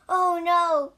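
loud, high cry of dismay; dismayed exclamation. Acted. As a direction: exclaim in alarm. Monk hears of the daughter.

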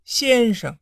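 a touch of coy affection; tender call. Acted. Lady tenderly calling the scholar, lightly coy. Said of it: "含情脉脉地喊了一句".

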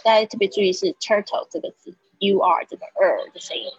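"turtle" with a strong r-colored ur vowel; 强调turtle的卷舌音. Shown as a demonstration. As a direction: bend the "turtle" ur sound with the tongue curled.

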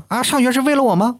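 high mock parent voice; lightly hammed-up indignant parent; parent retorting. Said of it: "当然他们还有说呢". (高声模仿父母反问)

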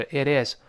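"it is" with a flapped middle t; voiced t. Shown as a demonstration. Teacher shows the voiced middle t, flapped "it is". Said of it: "中间那个t浊化了".

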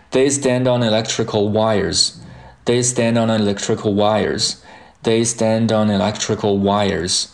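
"stand on electrical" run together; linked pronunciation. Shown as a demonstration. Teacher joining up the whole sentence, linked pronunciation. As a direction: carry d into "on" and n into "electrical". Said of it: "连接起来".

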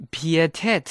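"pietat" as pi-e-tat, vowels apart; separated vowels. Shown as a demonstration. Teacher warns learners, "pietat" with vowels read separately. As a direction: split the two vowels in "pietat". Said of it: "E和A要分开读".

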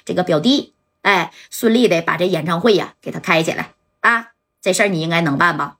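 lightly voiced big shot, firm and unhurried; a hint of a patron laying down the job; commanding boss giving orders. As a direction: Zhou ordering Liu Han to settle the matter.

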